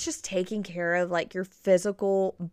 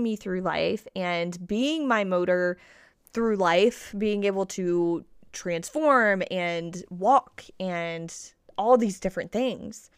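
put-on gentle to a child. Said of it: "So that would be more like".

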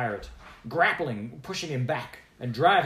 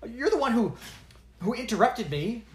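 higher, louder accusation; girl accusing the dwarf; 12 semitones higher, 5 dB louder than usual. Acted. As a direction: throw the blame at him. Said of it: "she accused".

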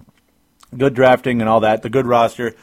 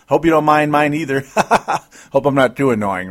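chuckling through the words; laughing; 4 semitones higher, 4 dB louder than usual. Real, not acted. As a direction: laugh while you say it. Self-deprecating joke with laughter.

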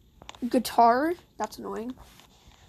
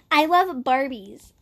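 drawn-out, lightly voiced little girl; slow it down in a slight little-girl voice; inner little girl. Gamer playing their inner self, a hint of little girl. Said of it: "little girl talking".

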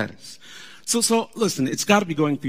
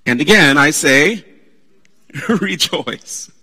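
louder, ringing preacher call; emphatic proclaiming; 3 semitones higher, 11 dB louder, slower than usual. Shown as a demonstration. Pastor quoting Paul to the church, loud and ringing. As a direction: proclaim it to the back row. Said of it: "Then he adds again".

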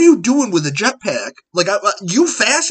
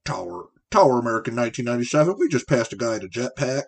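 radio-call pilot voice, quick; pilot impression; 4 semitones lower, 4 dB quieter, faster than usual. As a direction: read it like a cockpit radio call. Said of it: "this is my best pilot impression".

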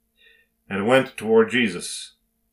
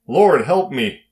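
higher, drawn-out cry for help; pleading yell; 4 semitones higher, 4 dB louder, slower than usual. Acted. Peter sinking in the waves calls to Jesus, pleading yell. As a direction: call out slowly, voice raised. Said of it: "He yelled".

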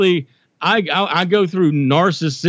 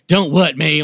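imitating mom; 2 semitones higher, slower than usual. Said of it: "she hates it when I do her".

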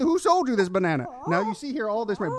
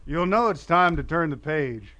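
lower, measured storybook-tape narration; audio-tape narrator; 4 semitones lower than usual. Retold or imitated. Imitating a recorded school tape for friends, instructional narrator voice. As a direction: read like a kids' read-along tape. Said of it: "the tapes would go like this".

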